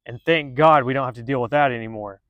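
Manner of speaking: dryly sarcastic thanks; tongue-in-cheek gratitude. Real, not acted. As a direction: say it with mock relief. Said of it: "he said very sarcastically".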